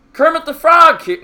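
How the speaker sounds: a first stab at a Kermit squeak that misses; Kermit the Frog. Pretend. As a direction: chat asked for it, so he attempts a shaky high frog voice. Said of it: "Please commentate in a Kermit the Frog voice".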